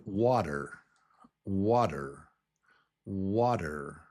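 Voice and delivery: "water" with a strong first syllable, falling away; stress on first syllable. Shown as a demonstration. Teacher models a word for learners, first-syllable stress on "water". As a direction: lean on the first half of "water". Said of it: "syllable one is the strong syllable".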